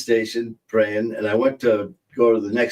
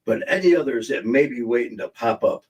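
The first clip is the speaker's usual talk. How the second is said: mock commercial. Pitching Zapsit to older viewers, mock ad voice. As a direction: sell it like a cheesy acne ad. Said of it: "Don't you wish we had a commercial?".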